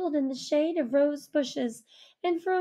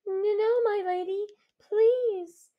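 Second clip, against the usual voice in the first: high, stammering plea; frightened pleading; 6 semitones higher than usual. Acted. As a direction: beg with fear. Girl pleads in fear.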